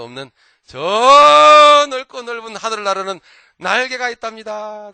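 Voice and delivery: a lightly voiced little bird, proud of its wings; sparrow's reply. Sparrow answers the bear. (날개를 자랑하는 참새 목소리)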